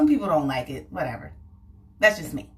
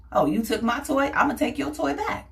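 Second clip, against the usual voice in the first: high, childish mock whine; whiny five-year-old; 6 semitones higher than usual. Five-year-old whining at the kid who grabbed his toy.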